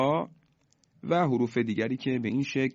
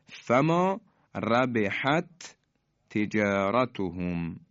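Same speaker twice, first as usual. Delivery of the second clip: Quranic recitation; much slower than usual. Shown as a demonstration. Teacher reciting the next example verse to students, very slow chant. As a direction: draw out every syllable like a reciter. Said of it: "مثال بعدی".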